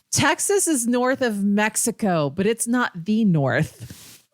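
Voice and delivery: drawn out, deliberately slow explanation; slow condescending correction. Retold or imitated. Roommate slowly correcting the Texan on geography, condescending. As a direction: spell it out slowly like to a child. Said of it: "And she goes".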